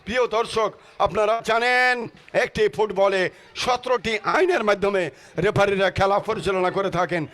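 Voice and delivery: rousing football commentary call; live play-by-play. Acted. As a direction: call the match like a stadium announcer.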